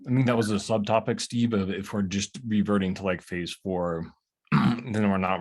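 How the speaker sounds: talking through a mouthful of food; words round a bite, mouth full. Real, not acted. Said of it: "I'm talking with my mouth full".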